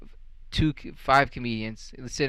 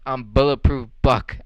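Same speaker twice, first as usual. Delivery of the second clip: slow, louder boast of "bulletproof Buck"; mock tough guy; 6 dB louder than usual. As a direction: puff up and brag it slowly. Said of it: "He said".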